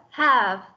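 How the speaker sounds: "have" ending in a voiced v; final V. Shown as a demonstration. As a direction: keep the v at the end of "have". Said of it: "âm V đằng sau ấy".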